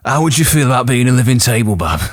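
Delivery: lightly done Southern flirt voice; coy Southern come-on; Southern belle accent. Acted. The wife propositions Gawain in a Southern accent. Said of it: "hence the interesting accent".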